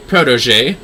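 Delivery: lightly voiced commanding lady. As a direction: lay down the terms with no room to argue. Lady gives orders.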